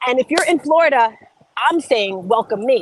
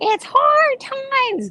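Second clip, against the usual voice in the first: put-on very high little old granny voice. Speaker quotes their grandmother's favorite saying, in grandmother's really high voice. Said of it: "my grandmother had a really high voice like this".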